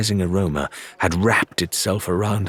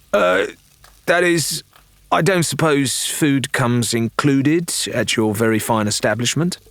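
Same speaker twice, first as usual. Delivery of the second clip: higher, overly polite backpedal; hungry Lorena flattering the barkeeper, higher and sugary; sweetly wheedling Lorena; 6 semitones higher than usual. Acted. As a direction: fish for breakfast with mock courtesy. Lorena changes tack for food.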